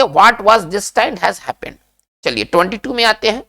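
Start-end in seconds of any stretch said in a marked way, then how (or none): 0.0-1.7 each English word spaced out very slowly; slow dictation. Shown as a demonstration. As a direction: spell it out slowly for the class to repeat. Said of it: "हम कैसे इसको बोलेंगे".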